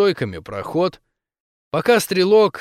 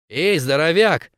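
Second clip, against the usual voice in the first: squeaked; 3 semitones higher than usual. Acted. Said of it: "пропищала Криси".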